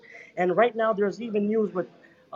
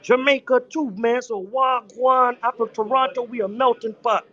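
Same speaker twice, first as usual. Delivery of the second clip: light Jamaican greeting voice; a touch of Jamaican patois; Jamaican accent; 3 semitones higher than usual. Real, not acted. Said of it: "all my brethren are from Jamaica".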